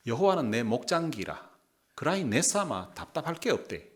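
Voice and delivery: Gyeongsang dialect scripture reading. Shown as a demonstration. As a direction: read the verse in Gyeongsang dialect. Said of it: "경상도 버전을 한번 읽어드리겠습니다". (경상도 사투리로 성경 읽기)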